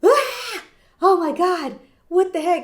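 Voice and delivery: high, loud, laughing exasperated cry; overwhelmed mom outburst. Retold or imitated. New mom alone with the baby, loud laughing exasperated outburst. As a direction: let it burst out, half laughing at the chaos. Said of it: "I was like".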